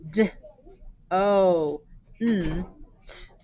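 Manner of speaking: letter-by-letter spelling, D, O, N, T; sounding out letters. Shown as a demonstration. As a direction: say each letter separately: D, O, N, T. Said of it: "we have to do our sounds".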